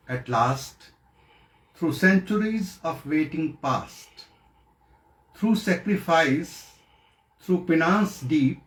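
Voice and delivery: measured poetry reading with long pauses; poem recitation. Acted. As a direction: recite verse solemnly, pausing between phrases.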